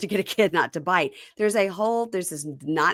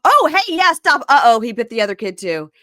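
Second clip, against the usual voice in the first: high and loud warning; mock alarmed shout; 6 semitones higher, 9 dB louder than usual. Jovi calling out at the biting, high loud alarm. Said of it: "you hear Jovi go".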